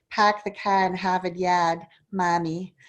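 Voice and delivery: light Boston accent, dropped R's. Shown as a demonstration. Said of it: "what the Boston accent sounds like".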